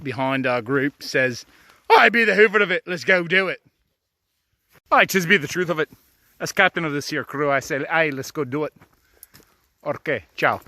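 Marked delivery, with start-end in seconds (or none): 1.9-10.6 put-on the old dog as a hammy pirate captain; old man dog voice. Voicing old dog Jake as captain rallying the crew, lightly. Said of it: "Jake's the old man".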